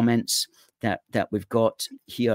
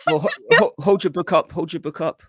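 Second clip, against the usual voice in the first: louder, higher, eager push to show the book; bursting in to get the book shown; excited urging; 7 semitones higher, 5 dB louder than usual. Real, not acted. Host urging the author to hold up her book, excitedly.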